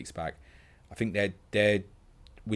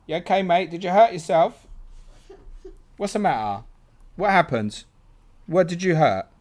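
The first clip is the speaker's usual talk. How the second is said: kissing it better; 9 semitones higher, 8 dB louder than usual. Real, not acted. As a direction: coo over a hurt thumb. Comforting a hurt child.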